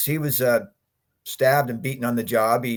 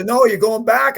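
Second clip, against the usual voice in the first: retold order; 9 semitones higher, 7 dB louder than usual. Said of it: "He says".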